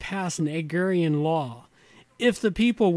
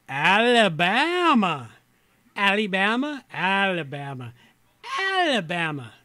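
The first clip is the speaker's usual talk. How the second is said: attempted Southern accent; 2 semitones higher, 4 dB louder than usual. Shown as a demonstration. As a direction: feel around for a Southern accent. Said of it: "where my southern accent's at".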